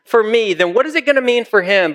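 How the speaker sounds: lightly acted disciple protesting his lot; Peter's worried protest. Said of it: "He, he says that".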